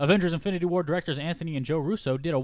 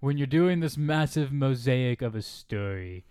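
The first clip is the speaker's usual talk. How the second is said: Trump impression; 4 semitones lower than usual. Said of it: "that could have been, like, a Trump quote".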